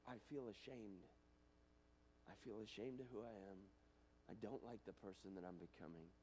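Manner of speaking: a hint of hushed shame; quiet shame. Voicing ashamed confession.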